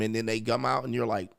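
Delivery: usual speaking voice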